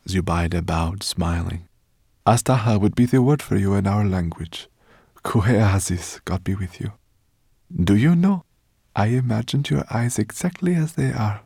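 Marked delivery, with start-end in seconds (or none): 2.3-11.4 slightly raised voice, full of wonder; awed scholar addressing the dragon; reverent woman scholar. Acted. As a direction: greet a revered dragon with delight.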